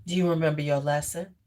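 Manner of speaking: firm question. Shown as a demonstration. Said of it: "That's the things you say".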